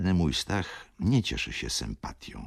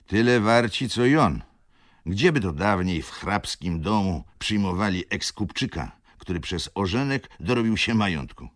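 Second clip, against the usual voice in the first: wheezy gentleman; 5 semitones higher, 5 dB louder than usual. A narrator's reading. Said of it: "wtrącił jegomość dychawiczny".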